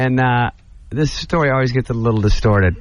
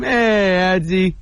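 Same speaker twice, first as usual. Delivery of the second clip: wheezy fan impression; 5 semitones higher, much slower than usual. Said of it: "he wheezes over to Sandler".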